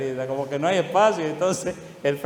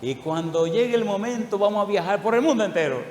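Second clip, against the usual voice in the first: higher, eager retelling of the son's dream; excited son; 5 semitones higher, 3 dB louder than usual. Retold or imitated. Son telling his father his dreams, excited. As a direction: voice the son's excitement about travel. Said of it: "Y Andrés me decía".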